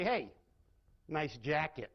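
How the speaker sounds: dry sarcastic "Hey, nice jacket."; mocking "nice jacket", not meant. Shown as a demonstration. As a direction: say it as a backhanded dig. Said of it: "Same exact words. Very different meaning".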